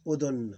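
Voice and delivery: "udhun" closed on the n; sukoon ending. Shown as a demonstration. Teacher showing how we pronounce it, sukoon ending. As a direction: say "udhun" with no vowel after n. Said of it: "We pronounce it like this".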